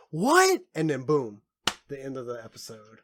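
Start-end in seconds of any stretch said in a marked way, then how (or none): 0.1-0.6 shocked what. Retold or imitated. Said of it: "and she's like".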